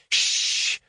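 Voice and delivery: sharp whispered shh; hushing. Acted. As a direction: hush him urgently under your breath. Hushing his mate on the phone.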